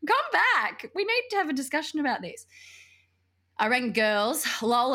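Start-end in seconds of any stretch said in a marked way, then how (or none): 0.1-2.5 high, urgent call; mock-frantic plea to return; retold demand. Retells demanding he come back.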